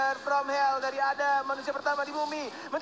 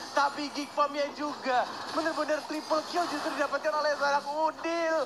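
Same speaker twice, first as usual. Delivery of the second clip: excited caster; 4 semitones higher than usual. Acted. Hyped caster recap.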